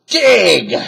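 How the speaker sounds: shouted. A narrator's reading. Captain orders his men, loud shout. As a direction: snap the order out. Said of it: "shouted Captain Bones".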